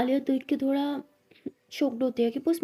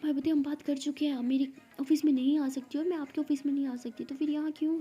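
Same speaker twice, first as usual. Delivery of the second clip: annoyed, higher-pitched objection; mild anger; 3 semitones higher than usual. Acted. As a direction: voice a mildly cross partner pushing back. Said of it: "पहले क्यों ऐसे बात किया गुस्से में". (हल्के गुस्से में, थोड़ी ऊँची आवाज़)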